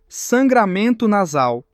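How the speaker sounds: slow teasing drawl; slow mocking taunt. Rival keeps teasing her nosebleed, slow and mocking. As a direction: stretch each word slowly to needle her. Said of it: "continua provocando".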